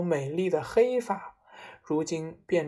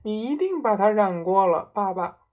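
put-on raised boyish voice, starting loud; lightly voiced boy insisting; accusing son; 3 semitones higher, 5 dB louder than usual. Son tells his father he dyed it, accusing.

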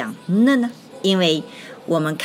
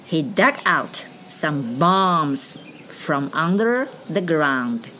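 model sentence; slower than usual. Shown as a demonstration. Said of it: "我们看一下".

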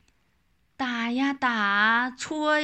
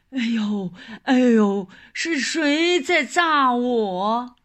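loud startled yelp; tiger yelping in pain; 4 dB louder than usual. Acted. Tiger hit by firecracker.

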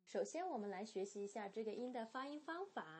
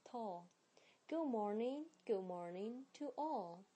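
model reading. Shown as a demonstration. Teacher reading the poem first for students, measured. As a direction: read the little poem out clearly for the class. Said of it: "我先呢来读一遍咯".

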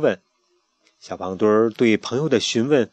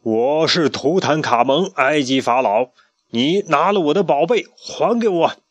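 commanding pharaoh; 4 semitones higher, 3 dB louder than usual. Acted. Tutankhamun demanding his treasure, imperious voice. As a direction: announce yourself like a stern pharaoh.

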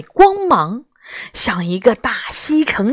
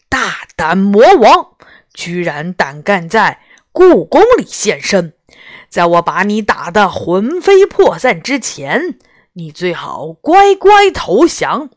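loud, commanding challenge; bold shout; 4 dB louder than usual. Acted. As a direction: call out the demon fearlessly. Taoist defies the demon.

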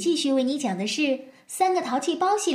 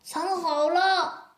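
slow clear reply; 5 semitones higher, slower than usual. Acted. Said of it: "非常清楚地听到".

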